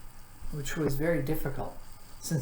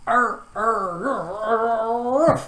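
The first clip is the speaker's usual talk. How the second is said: high, loud barking arrs; dog barking; 7 semitones higher, 6 dB louder, much slower than usual. A narrator's reading. Watchdog rushes at the car, barking loudly. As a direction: bark it out like an excited dog. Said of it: "exclaimed the watchdog".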